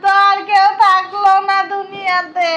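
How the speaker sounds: sung wailing grief; keen it like a mourning widow; wailing lament. Acted. Grandmother wails over dead husband. (বিলাপ করে কান্না)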